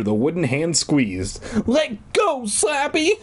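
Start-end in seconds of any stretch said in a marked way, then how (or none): 1.7-3.1 very high mock shriek. Puppeteer pulling at the dummy's fingers, shrieking. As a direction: squeal the order without much volume. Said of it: "I shrieked".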